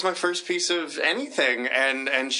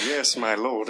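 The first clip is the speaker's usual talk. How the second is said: butler line; 5 semitones lower, slower than usual. Retold or imitated. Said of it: "watching the same scene of".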